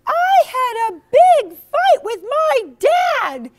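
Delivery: high, loud, slow wailing; groaning complaint. Acted. Jessica telling Jeremy about her dad, slow loud whining. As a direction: whine it like you're near tears. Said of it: "she groaned".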